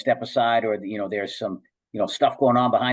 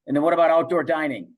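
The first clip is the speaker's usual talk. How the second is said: louder, higher, rushed challenge; mock indignant grilling; 5 semitones higher, 4 dB louder, faster than usual. Host Carolla grilling Newsom on air, raised and fast. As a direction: fire the question fast and raised, like a pundit pressing. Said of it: "He goes".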